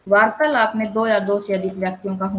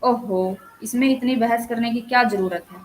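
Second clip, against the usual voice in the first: mildly exasperated objection; irritation; 3 semitones higher than usual. Shown as a demonstration. Teacher voices someone fed up with family bickering, mild irritation. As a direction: show light annoyance at the argument. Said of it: "खिज को दर्शा रहा है".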